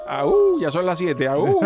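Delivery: hammed-up werewolf howl. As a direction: howl like a tired werewolf getting up for work. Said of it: "decía el hombre lobo".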